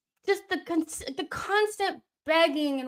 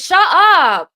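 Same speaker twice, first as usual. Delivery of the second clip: angry shout; 7 semitones higher, 16 dB louder than usual. Real, not acted. Yelling at players during match.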